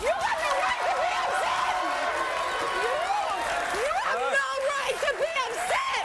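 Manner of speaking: indignant. Real, not acted. Angry retort at boyfriend.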